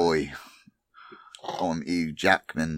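put-on a light, slowed Australian accent; lazy Aussie twang, Hugh Jackman style. Friend asks him for an Australian accent. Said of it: "Get another accent going".

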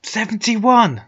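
high astonished question; surprised. Real, not acted. Astonished at the number.

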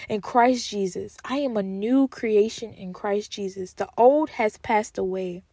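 slow, deliberate affirmation; slow affirmation recital. Shown as a demonstration. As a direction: say it slowly so they can repeat. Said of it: "Say that".

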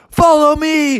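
high rallying yell; yelled command. Acted. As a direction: call the bears on in a high voice. Bear yelled out to others.

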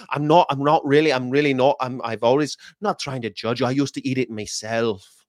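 lightly put-on Irish accent; stumbling attempt at an Irish brogue. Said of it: "Really like the Northern Irish accent".

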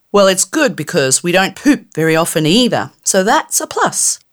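high, brash fairy voice, slowing at the end; cheeky fairy. Acted. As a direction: tease her with a rude joke. Fairy jokes about pooping.

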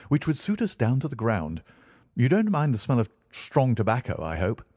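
lightly voiced Holmes.

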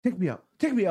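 mildly angry, rising insistence; mock mad challenge, climbing in pitch; retold mad dare. Passenger daring Andy to kick him out, retold mad. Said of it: "I was getting all mad".

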